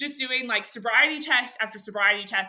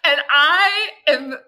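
freaking out; 2 semitones higher, 6 dB louder than usual. Retold or imitated. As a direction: lean hard on each word, exasperated. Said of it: "freaking out".

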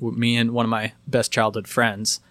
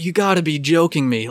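disbelief; 6 semitones higher, 3 dB louder than usual. Retold or imitated. Disbelief at drunk in car.

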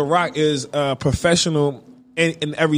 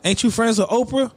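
higher-pitched, earnest plea; mock-sincere appeal, asking why; imitated sincerity; 7 semitones higher than usual. Imitating Snoop questioning Gayle, polite and sincere. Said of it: "he seemed so sincere".

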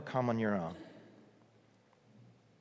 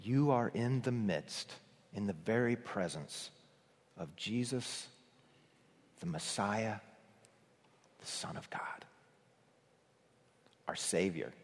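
hushed reverence; 4 semitones lower, 10 dB quieter than usual. Acted. Preacher opening to the congregation, hushed and reverent. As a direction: draw the congregation in gently, almost a whisper at the end.

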